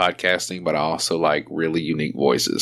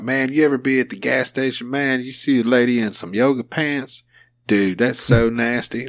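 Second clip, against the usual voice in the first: Theo Von impression; 4 semitones higher than usual. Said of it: "When he talk".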